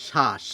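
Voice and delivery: শ্বাস said as shaash, no b sound; শ্বাস pronounced shash. Shown as a demonstration. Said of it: "আমরা বলি".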